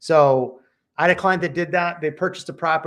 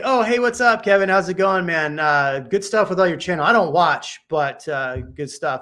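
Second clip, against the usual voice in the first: breezy friendly greeting; 3 semitones higher, 5 dB louder than usual. Retold or imitated. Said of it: "I was like".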